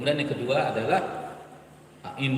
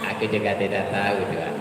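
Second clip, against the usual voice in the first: timid soldier; 6 semitones lower than usual. Shown as a demonstration. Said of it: "soldier answers".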